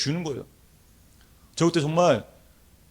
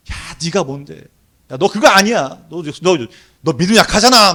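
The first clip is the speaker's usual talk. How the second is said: higher, louder taunting voice; sneering tempter; 4 semitones higher, 8 dB louder than usual. Retold or imitated. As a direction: jab at the listener like a tempter. Voicing Satan's taunts.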